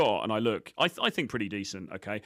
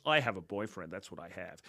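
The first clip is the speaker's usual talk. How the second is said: coquettish imitation; 3 semitones lower, 5 dB quieter than usual. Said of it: "the way she says it is quite coquettish, quite flirtatious".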